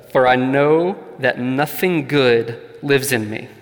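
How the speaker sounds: slow, deliberate scripture reading. Real, not acted. Preacher reading Paul's Romans to the congregation, slowly. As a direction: read it slowly, phrase by phrase, weighting key words. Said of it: "I'm gonna read it slow".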